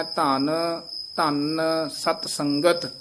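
first ਧਨ said softly, without nasal; slow ਧਨ, ਧਨ ਸਤ ਸੰਗਤ with a light first ਧਨ. Shown as a demonstration. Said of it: "ਇਹਨੂੰ ਪੋਲਾ ਬੋਲਣਾ ਹੈ". (ਪਹਿਲਾ ਧਨ ਪੋਲਾ ਬੋਲੋ)

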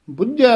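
ਬੁੱਝੈ said tight and firm; ਬੁੱਝੈ tensed; tight pronunciation. Shown as a demonstration. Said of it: "ਥੋੜ੍ਹਾ ਜਿਹਾ ਕੱਸ ਕੇ ਬੋਲਣਾ".

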